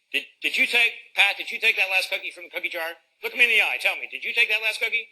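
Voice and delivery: mock-stern parent demanding the truth; accusing parent. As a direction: grill the kid about the cookie. Mock interrogation over a cookie.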